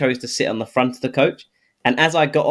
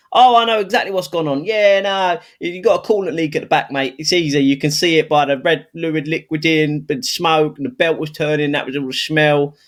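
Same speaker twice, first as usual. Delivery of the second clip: higher, eager know-it-all mechanic voice; a confident expert explaining it all, pitched up; imitating the lecturer; 5 semitones higher than usual. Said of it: "was that actually what his voice sounded like? Is that you making an accent".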